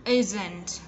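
"Isn't" with a gently released t at the end; demonstrated "Isn't" with a crisp little final t; light final T. Shown as a demonstration. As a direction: model "Isn't", lightly sounding the ending. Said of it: "Bật nhẹ ending sound".

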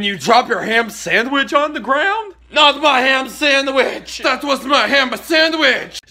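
loud, high, slow wail of loss; anguished shout. Acted. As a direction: cry out over the lost sandwich. Dropped sandwich dismay.

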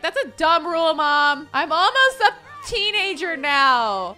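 acted defiant protest; arguing back. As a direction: talk back to mom as an indignant daughter. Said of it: "Summer's gonna argue back".

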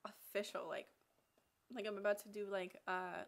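syringe against the lips; speaking with hand at mouth. Real, not acted. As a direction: hand partly covering mouth. Seen 0: Hands hold syringe against lips and lower face, then move away.

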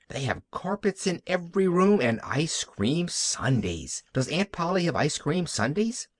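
lightly voiced delighted little girl; Pollyanna. Child Pollyanna delighted about riches.

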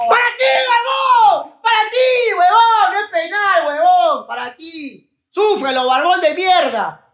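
high, gloating yell; taunting shout. Real, not acted. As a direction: scream the taunt at the TV. Grita burlándose del rival. (grito burlón)

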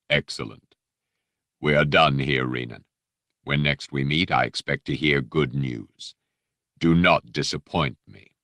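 low, smooth, polite threat; lightly voiced Dark Lord; silky menacing Vader. Vader dismissing the Jedi, silky and menacing. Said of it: "that silky, menacing voice".

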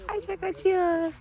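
high stretched-out teasing call; repeating the tease to the little girl, high and slow. Acted. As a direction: draw the words out slowly, teasing. Teasing the child running away.

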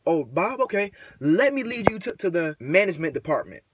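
lightly put-on polite office greeter; mock a professional front-desk voice; a hint of over-polite corporate employee; corporate customer-service voice. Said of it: "I don't wanna be talking like".

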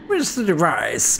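a hint of a scheming villain; mustache twirling villain. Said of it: "That's how he sounds".

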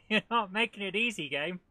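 laughing. Real, not acted. Laughing frustration at game.

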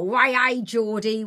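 loud, bouncy "Way, hey" cheer; lively Geordie whoop; excitable Geordie. Shown as a demonstration. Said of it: "You're more a".

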